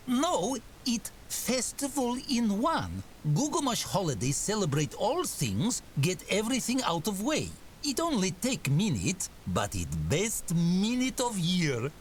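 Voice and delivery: high-pitched orc voice, broken grammar; enthusiastic orc. A narrator's reading. Orc explains one-minute festival to keeper, enthusiastic.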